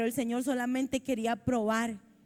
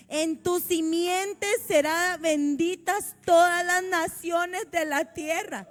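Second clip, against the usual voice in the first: solemn scripture reading; 3 semitones higher than usual. A narrator's reading. Preacher reading God's promise to Abraham, solemn proclamation. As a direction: declaim it in measured, raised phrases.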